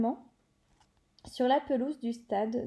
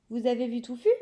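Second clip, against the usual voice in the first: startled question with a lift on avez; surprised exclamation; 5 dB louder, faster than usual. Acted. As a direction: blurt it out, caught off guard. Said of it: "s'exclama-t-il".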